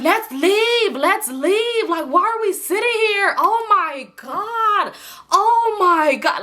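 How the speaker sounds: high, loud whiny insistence; loud irritated pleading. Retold or imitated. Tipsy friend begging her date to leave, loud and whiny. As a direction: push to leave, exasperated and loud. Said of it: "I really was kinda loud".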